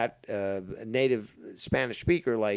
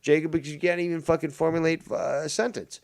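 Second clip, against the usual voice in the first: retold outburst; 4 semitones higher, 4 dB louder than usual. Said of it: "fucking Danny just bursts".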